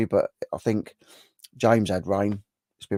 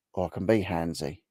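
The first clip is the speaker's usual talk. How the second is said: cheeky handsy; 3 semitones lower, 6 dB quieter than usual. Pretend. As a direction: lower and softer, a sly hint on handsy. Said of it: "he was handy or handsy?".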